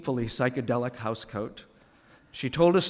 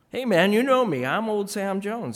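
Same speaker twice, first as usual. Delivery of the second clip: Sam Jones pleading; 7 semitones higher, 5 dB louder than usual. Acted.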